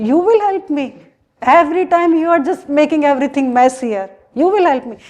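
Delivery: mock-indignant questioning, jumping up in pitch; incredulous. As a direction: scoff at an unlikely offer of help. Gopi scoffs at his offer.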